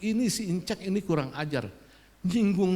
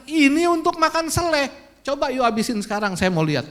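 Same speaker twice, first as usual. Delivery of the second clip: loud, higher, heated challenge; angry retort; 9 semitones higher, 9 dB louder, faster than usual. Retold or imitated. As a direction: throw the challenge back in anger. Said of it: "naik darah saya".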